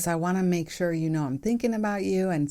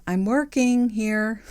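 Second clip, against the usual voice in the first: louder, slower, higher irritated retort; defensive brush-off; 5 semitones higher, 5 dB louder, slower than usual. Retold or imitated. To husband instead of asking for space, irritated louder retort. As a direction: push him away with it. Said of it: "But sometimes I'll say".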